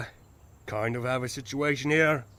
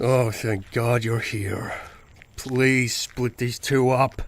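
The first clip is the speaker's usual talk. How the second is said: relieved plea; 5 dB louder, slower than usual. Acted. Begging someone to separate fighters.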